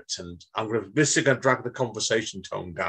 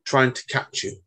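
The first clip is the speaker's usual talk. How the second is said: poem reading. Acted. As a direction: read it out as a poet would, with pauses. Reads his poem.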